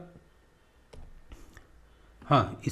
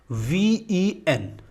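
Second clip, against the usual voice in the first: slow spelling out; 5 semitones higher, much slower than usual. Shown as a demonstration. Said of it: "spelling out letters".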